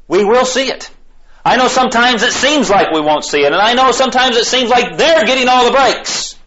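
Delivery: high, fervent preaching voice; impassioned preaching. Real, not acted. Preacher reassuring weary believers they will see justice, impassioned. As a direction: preach it urgently, pitched well up.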